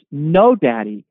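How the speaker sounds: put-on a small child pleading with daddy not to leave; toddler pleading. Retelling the crying toddler's plea.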